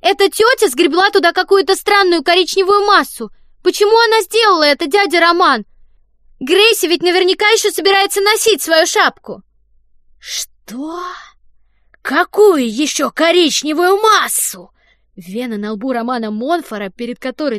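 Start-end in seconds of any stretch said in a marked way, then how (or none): 0.0-9.4 high, loud, put-on scared kid; frightened child. Don reports Fanny to the director, fake frightened child. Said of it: "испуганно сообщил он". 10.2-14.7 higher, loud and slow, disbelieving; incredulous anger. Acted. The director hears about the brown mass, furious disbelief.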